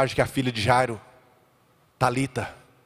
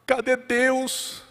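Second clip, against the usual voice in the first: desperate believer; 10 semitones higher than usual. Retold or imitated. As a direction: cry out impatiently for a miracle now. (fiel desesperado, clamor agudo e cantado)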